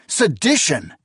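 high, loud shocked cry; exclaimed. A narrator's reading. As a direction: throw the word back in disbelief. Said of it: "Akamian exclaimed".

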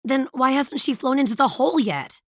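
high, loud questioning yell; yelling over rain. A narrator's reading. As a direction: shout the question over a downpour. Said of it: "Sage yelled over the rain".

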